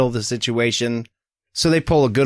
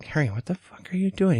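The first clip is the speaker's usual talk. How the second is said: high, quick, exasperated; a hint of Hermione, startled and fed up; 8 semitones higher, 5 dB quieter, faster than usual. Hermione scolding Harry in the corridor, exasperated. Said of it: "Hermione is like".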